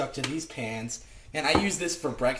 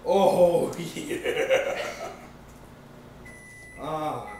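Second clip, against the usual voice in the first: laughing; 2 semitones higher, 4 dB louder, much slower than usual. Real, not acted. Delighted with his pancake mix.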